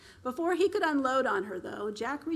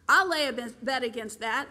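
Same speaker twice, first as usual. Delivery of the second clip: cocky bet; 6 dB louder than usual. Acted. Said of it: "a friend of Mark said".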